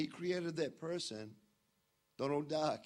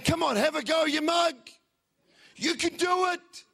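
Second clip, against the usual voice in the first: higher and louder, hearty cheer; cheering crowd; 12 semitones higher, 10 dB louder than usual. Retold or imitated. Cloud of witnesses cheering a nervous man, loud and high. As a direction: egg him on like a rowdy supporter. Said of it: "a cloud of witnesses cheering you on".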